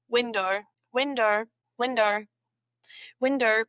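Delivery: "window" repeated as "winder"; Aussie "windor" for "window"; R added. Shown as a demonstration. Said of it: "because there's an O".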